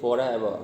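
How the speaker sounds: "forever" ending in an open "-vuh", no final r; silent final R. Shown as a demonstration. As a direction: let "forever" fall away on a vowel, dropping the last r. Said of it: "silent होता है आर last वाला". ("forever" के आखिर का र बोले बिना, "फॉरेवा" जैसा)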